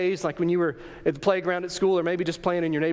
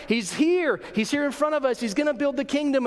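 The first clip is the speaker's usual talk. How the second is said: higher-pitched, mounting excitement; excited disciples; 6 semitones higher than usual. Acted. Disciples thrilled the Messiah is here, excitedly. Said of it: "they're all excited".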